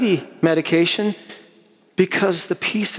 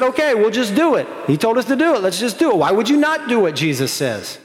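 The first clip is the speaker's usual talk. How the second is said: higher, lively voicing of eager lepers; 5 semitones higher, faster than usual. Preacher acting out the healed lepers, eager and higher. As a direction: play it as keen, willing followers.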